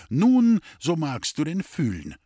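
nun bursts out high and loud, then settles; sudden outburst. Acted. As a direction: snap out the nun, then calm down. Scolding friend bursts out. (lautes Aufbrausen bei nun, dann ruhiger)

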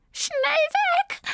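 high mewing cat cry; meowing cat. A narrator's reading. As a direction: meow the words out in alarm. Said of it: "miaute Zelda".

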